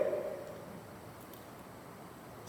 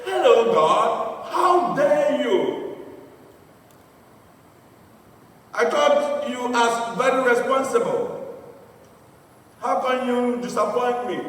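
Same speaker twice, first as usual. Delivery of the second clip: mock outrage, raised a little in pitch; upset; 3 semitones higher than usual. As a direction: act out an affronted host, drawing out the opening words. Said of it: "he was so upset".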